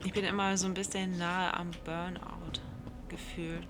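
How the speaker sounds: ordinary talk, nothing marked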